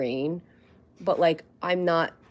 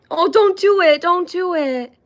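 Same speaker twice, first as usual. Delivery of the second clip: much higher and louder begging; pleading squeal; 11 semitones higher, 10 dB louder than usual. Real, not acted. Owner begging puppy to stop the cute look, squealing.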